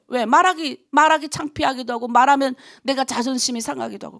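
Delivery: normal talking voice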